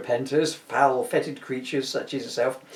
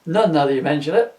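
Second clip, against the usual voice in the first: punchline delivered louder, ending on a rise; louder retake; 7 dB louder than usual. Shown as a demonstration. Spirit redoing his line for Scrooge, louder. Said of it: "That one was well telegraphed".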